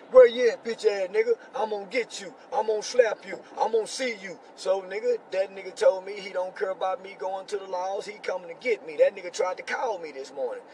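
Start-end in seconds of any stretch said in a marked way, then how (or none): 0.1-4.4 high, loud mock street threat. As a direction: bark the threats like a caller. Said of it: "start typing threats".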